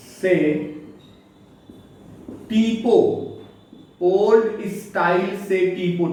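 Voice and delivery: slow, drawn-out mnemonic phrase. Shown as a demonstration. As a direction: say it slowly for memory. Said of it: "slow mnemonic demo".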